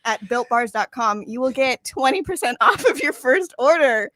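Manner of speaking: ad read. Acted. Reads a sponsor promo.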